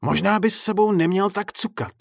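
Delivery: creepy playful clown; smiling clown. Acted. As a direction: tease him with a grin, sing-song. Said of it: "usmál se na něj".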